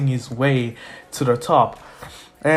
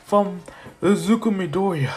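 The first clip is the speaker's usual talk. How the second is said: excited MC kicking off the games; event announcer; 7 semitones higher than usual. Acted. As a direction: announce it to the stadium, rising to a high call. Host announces the first event.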